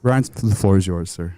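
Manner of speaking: low, deadpan formal handover; mock funeral officiant. Officiant calling the nephew up, mock solemn. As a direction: hand over the floor with mock solemnity. Officiant hands over to eulogist.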